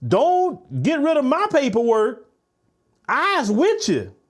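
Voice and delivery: mocking her plea. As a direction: parody someone begging to be spared. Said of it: "To say".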